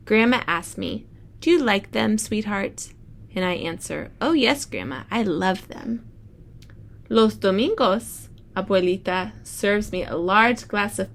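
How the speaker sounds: bright storybook read-aloud; reading to children. Acted. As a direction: read it like story time for the class. Teacher reads picture book aloud.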